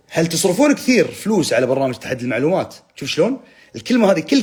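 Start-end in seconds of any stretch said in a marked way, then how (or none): 0.1-2.7 game-show hype read. Shown as a demonstration. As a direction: announce the comment like a big quiz fact. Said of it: "خليني أقرأ الكومنتات كأنها معلومة". (نبرة مقدم برنامج مسابقات متحمسة)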